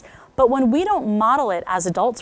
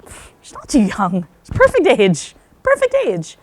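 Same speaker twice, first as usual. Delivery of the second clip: emphatic disagreement; 2 semitones higher, 6 dB louder than usual. Retold or imitated. Coach telling the mom, insistently. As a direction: push back with growing insistence. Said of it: "I'm like".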